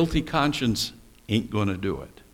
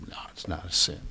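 hushed; 6 semitones lower, 8 dB quieter, faster than usual. Real, not acted. Preacher answers his own question.

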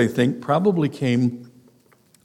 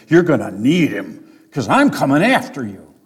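mock threat; 5 dB louder than usual. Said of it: "That's basically what he's saying".

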